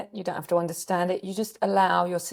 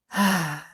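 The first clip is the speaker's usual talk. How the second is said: soft sigh. Real, not acted. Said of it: "choose to do a sigh like that".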